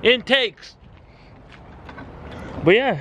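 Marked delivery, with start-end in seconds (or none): 0.0-0.8 lisping through retainers; mouth full of retainers. Real, not acted. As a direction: say it around a retainer. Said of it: "I can't even say it 'cause I have freaking retainers on".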